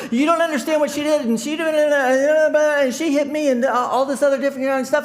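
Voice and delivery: high, fast, shrill-free mock pleading; mimicking the arguing women. Retelling the fight, imitating the women's protests. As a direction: rattle it off like an upset mom. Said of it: "they're going".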